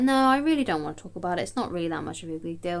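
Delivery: a hint of a reluctant girlfriend; mock girlfriend refusing.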